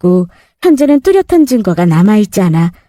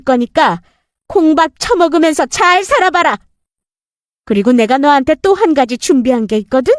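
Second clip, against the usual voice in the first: stern mother-in-law; 5 semitones higher than usual. Acted. Mother-in-law threatens stepmother.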